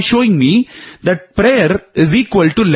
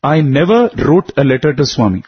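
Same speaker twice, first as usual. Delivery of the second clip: slow, deliberate repeat with weight on NEVER; emphatic denial; slower than usual. Real, not acted. Storyteller repeats the twist about the letter to Swami, emphatic denial. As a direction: spell it out slowly, leaning on NEVER.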